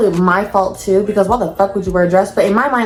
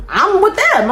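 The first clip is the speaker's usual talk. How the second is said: laughing; 11 semitones higher, slower than usual. Retold or imitated. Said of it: "And I'm like".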